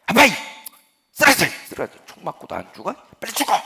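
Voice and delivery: put-on loud, high bossy child's yell; a kid demanding his dad fall down. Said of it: "아들이 아빠에게 호통을 치는 거라고".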